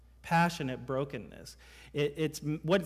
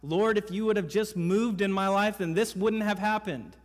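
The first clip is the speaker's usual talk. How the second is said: higher, louder aggrieved plea; frustrated complaint; 5 semitones higher, 5 dB louder than usual. Retold or imitated. A believer complaining to God in grief, frustrated raised plea. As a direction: accuse God of staying away.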